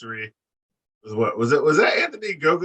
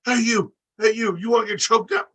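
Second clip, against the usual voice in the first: high-pitched mock taunting call, noticeably higher; mocking Anna's yell; 10 semitones higher than usual. Mocking a wrestler yelling into the mic, high taunt. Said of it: "And then Anna's just like".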